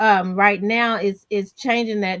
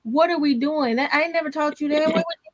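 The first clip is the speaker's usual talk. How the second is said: higher-pitched mock exasperation; lightly acted bewildered telling-off of a son; baffled parent remonstrating; 6 semitones higher than usual. Acts out parent confronting angry son.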